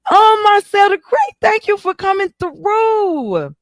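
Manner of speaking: gasping, high and loud welcome; light up at a guest joining; excited greeting. Real, not acted. Greeting Marcel joining the live stream, gasping and excited.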